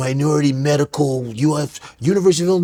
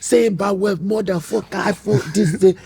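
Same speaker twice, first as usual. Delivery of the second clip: put-on Nigerian-accented dad swearing awkwardly; mock Nigerian father's accent; imitated Nigerian father; 4 semitones higher than usual. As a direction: recount it in dad's Nigerian accent. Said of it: "Nigerians imitating African Americans".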